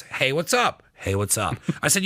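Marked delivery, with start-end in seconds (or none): 0.0-0.8 light, rising friendly hello; cheery casual check-in; friendly greeting. Shown as a demonstration. Texting a friend, read as a cheerful hello. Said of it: "You could be reading it as". 0.9-1.6 lower, colder, flat hello; curt greeting. Shown as a demonstration. Texting a friend, read as a cold, curt hello. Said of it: "You could be reading it as".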